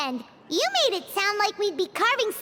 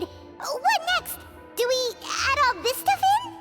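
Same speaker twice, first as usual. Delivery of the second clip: high, eager questions; eager excitement; 5 semitones higher than usual. Acted. Student to cooking teacher about the next step, excited. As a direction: ask excitedly, pitch lifting.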